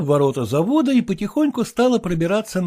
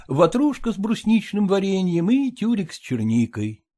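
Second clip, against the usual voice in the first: ordinary delivery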